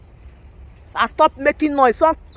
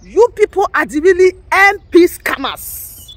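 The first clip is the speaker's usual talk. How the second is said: slower, louder accusation; accusing repeat; 4 semitones higher, 4 dB louder, slower than usual. Real, not acted. Repeating the accusation to agitators, louder. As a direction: throw the charge back at them. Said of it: "repeats phrase for emphasis".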